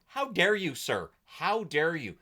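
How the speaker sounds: theatrical mock outrage; mock indignation. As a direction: play the offended gentleman.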